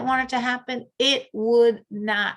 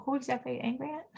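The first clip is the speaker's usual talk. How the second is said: usual speaking voice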